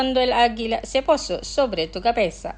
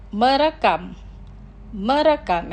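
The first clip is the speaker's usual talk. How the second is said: careful, measured vocabulary model; slow pronunciation. Shown as a demonstration. Teacher models words for listeners to repeat, slowly. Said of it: "Los pronunciaré lentamente".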